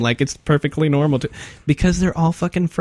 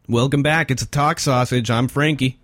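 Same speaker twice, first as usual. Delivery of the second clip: hammed-up frat bro radio host; frat boy voice. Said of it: "my frat boy voice".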